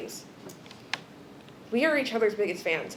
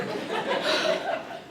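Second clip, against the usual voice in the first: teary laugh; 5 dB quieter than usual. Real, not acted. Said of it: "I'm just gonna cry more".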